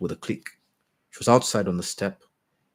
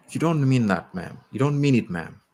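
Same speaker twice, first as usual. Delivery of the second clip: pained; 5 semitones higher, 3 dB louder than usual. Acted. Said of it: "there was pain in her voice".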